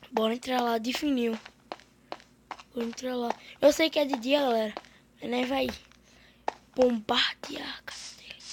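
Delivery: hushed, sneaky whisper; leaning in to whisper. Real, not acted. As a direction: whisper so he can't hear. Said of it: "eu vou falar baixinho pra ele não escutar".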